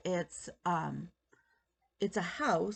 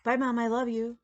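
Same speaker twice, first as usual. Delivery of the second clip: put-on higher, louder little girl's goodbye; daughter's first words; 4 semitones higher, 5 dB louder than usual. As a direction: lightly voice the child chirping it back. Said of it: "she turned to me and she goes".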